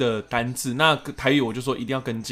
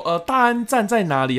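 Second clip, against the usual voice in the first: grandma voice; 7 semitones higher, 4 dB louder than usual. Retold or imitated. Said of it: "她说".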